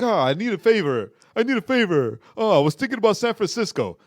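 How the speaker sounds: lightly imitated brooding hero; Batman voice. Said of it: "He used the Batman voice".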